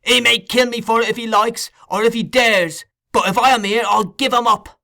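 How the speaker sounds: high, loud, frantic cries for help; a boy yelling murder at the top of his lungs; frantic shouting. A narrator's reading. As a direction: scream the house down in terror and rage. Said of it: "becoming more and more excited as he spoke".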